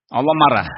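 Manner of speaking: "marah" punched out loud and falling; stress on marah. Shown as a demonstration. Preacher teaching his students, hitting "marah" loudly. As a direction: lean hard on "marah".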